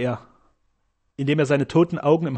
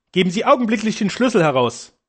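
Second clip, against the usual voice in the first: higher-pitched, indignant order; beside himself; 6 semitones higher than usual. A narrator's reading. Man demanding the key from the doctor, beside himself. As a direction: demand it at once, temper rising. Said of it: "rief der Angeredete jetzt außer sich".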